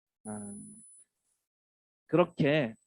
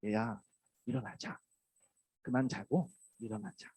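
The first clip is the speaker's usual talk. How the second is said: softer, tender call; gentle Jesus voice; 5 dB quieter than usual. Acted. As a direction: wake the soul gently. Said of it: "오늘 주님의 목소리입니다". (잠든 영혼을 부드럽게 깨우는 주님 목소리)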